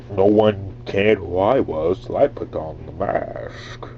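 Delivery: slow villain voice through a clamped nose; Bane. Shown as a demonstration. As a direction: pinch the nose and drawl like a masked villain. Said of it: "it kind of deepens your voice".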